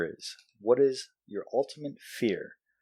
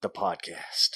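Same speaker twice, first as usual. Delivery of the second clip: cowboy cop. Pretend. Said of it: "I'm a cowboy cop".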